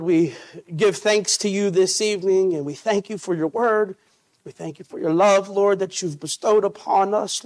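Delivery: earnest pastoral prayer voice; steady church prayer, fervent in the middle; closing prayer. Acted. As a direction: lead the congregation in prayer.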